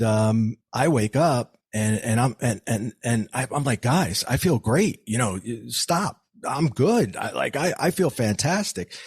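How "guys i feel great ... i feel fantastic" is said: retold elation, pitch pushed higher; reliving the euphoric rush, voice climbing higher; retold excitement. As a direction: insist to the paramedics that you feel fine, buzzing. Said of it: "Like, I'm all excited".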